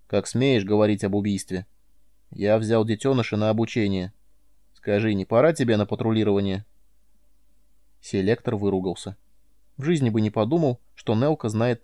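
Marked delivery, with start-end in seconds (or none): none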